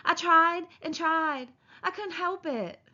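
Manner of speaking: Lenny's voice. A narrator's reading.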